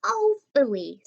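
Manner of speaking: breathy whispered disappointed phooey; sulky phooey. Acted. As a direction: grumble it, let down. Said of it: "says Gigi and kicks some dirt".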